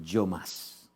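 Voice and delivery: a low, soft, weighty "yo más"; low emphatic. Acted. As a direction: drop the voice to land it. The speaker's climax, dropped low.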